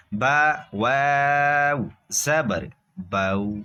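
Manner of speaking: slow spelling chant ending in a gentle, smooth بو; بو eased out evenly after long-held letter names; soft, correct بو. Shown as a demonstration. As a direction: glide softly through بو without jerk or drag. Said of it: "نرمی سے معروف پڑھنا".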